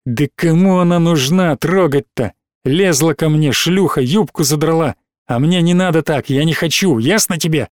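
usual speaking voice

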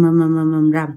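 low droning murmur; imitated chant mumbling. Master keeps reciting over incense, low monotone drone. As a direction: mumble an incantation on one low note. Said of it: "ổng đọc rầm".

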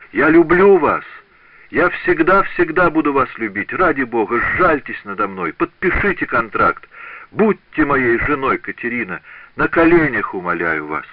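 desperate pleading. Acted. Apprentice on his knees begging Catherine to marry him, desperate. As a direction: plead for your life.

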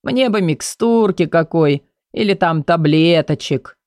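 whiny, pleading patient voice. Acted. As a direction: whine for pills like a child. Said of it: "Голос его сделался плаксивым".

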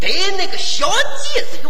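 put-on Shandong accent. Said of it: "学山东音".

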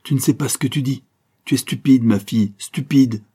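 exasperated father's insult; angry scolding. A narrator's reading. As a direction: berate her, slowing on the final insult. Father angrily berates his daughter.

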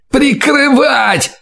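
high, slow desperate cry; shouted out. A narrator's reading. Terrified scout answers the interrogator, high desperate shout. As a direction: cry it out in terror. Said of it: "выкрикнул разведчик".

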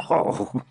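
ghastly laugh. A narrator's reading. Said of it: "a ghastly and constrained laugh".

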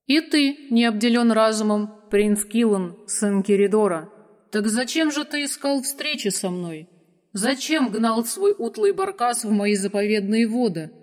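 lightly voiced ancient dragon; a hint of a wise dragon. Dragon speaks.

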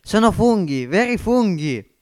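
a poor man spotting hidden treasure; excited discovery. Acted. Marcovaldo spots mushrooms at the tram stop, amazed delight.

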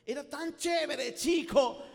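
loud, slow Caribbean Spanish; Caribbean accent. Retold or imitated. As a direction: copy the Central American preacher, loud and slow. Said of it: "los jóvenes se movían".

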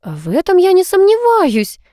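slow, high, amused lilt; lightly tickled, drawn-out reply. A narrator's reading. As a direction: suggest a mother's laugh. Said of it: "засмеялась мама".

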